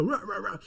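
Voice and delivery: half-laughing mock shout sounds, ua ua ua; mock yelling noises. Lecturer imitating a yelling boss, laughing mock shout. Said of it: "știi, când țipă".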